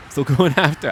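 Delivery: "going after" sung out playfully with a chuckle; a goofy little lilt on "going after"; odd sing-song delivery. Pretend. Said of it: "I don't know why I have to say it like that".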